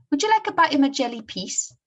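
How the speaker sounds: put-on high, loud Scottish comic-strip boy; Scottish accent. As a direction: offer it in a chirpy Scots voice. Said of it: "I'll try my best to read them using the Scottish accent".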